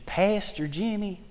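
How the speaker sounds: put-on old lady's twang. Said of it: "she talks with a big twang".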